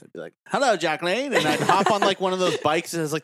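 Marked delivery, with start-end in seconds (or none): 0.5-1.3 lightly voiced old-fashioned gentleman; a hint of a Victorian suitor; old timey voice. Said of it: "I would do the old timey voice".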